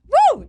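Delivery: high-pitched "woo!" whoop; demo cheer scream. Shown as a demonstration. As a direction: let out a short crowd scream. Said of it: "You scream".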